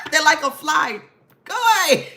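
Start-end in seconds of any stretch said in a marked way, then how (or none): 1.4-2.1 laughing go away. Retold or imitated. Laughing dismissal.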